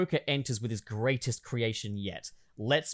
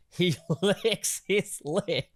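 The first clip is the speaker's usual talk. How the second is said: giggling; 6 semitones higher, slower than usual. Acted. Giggling while reading the script.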